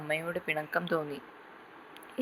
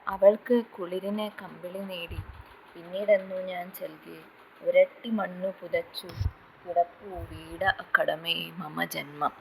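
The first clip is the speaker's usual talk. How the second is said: drawn-out poem recital. Acted. Poet Markos recites his verse, drawn out and mournful. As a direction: stretch every line out like a chanted lament. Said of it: "ഈ വരികൾ നീട്ടിച്ചൊല്ലി".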